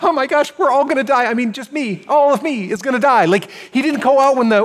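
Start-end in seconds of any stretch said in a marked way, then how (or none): 0.0-3.2 mock panic. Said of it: "He wasn't like".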